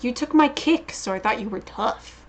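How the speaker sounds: mild taunt. Acted. Reader voicing him taunting a rival, mild taunt. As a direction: tease an opponent, letting it fall away. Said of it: "here he is taunting him".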